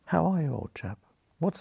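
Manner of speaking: hearty Oxford greeting, a little lifted; lightly put-on Oxford English; perfect Oxford accent. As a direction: play up the Oxford accent a touch. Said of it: "in my perfect Oxford accent".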